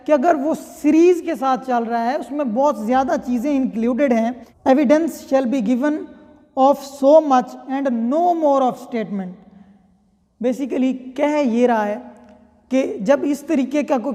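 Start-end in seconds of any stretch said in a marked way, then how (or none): 4.7-9.3 slow statute reading. Shown as a demonstration. Reads statute text slowly.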